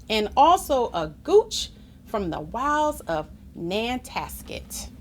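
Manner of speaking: measured, expressive picture-book reading; story narration. A narrator's reading. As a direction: read it aloud to children with clear phrasing. Reads story aloud.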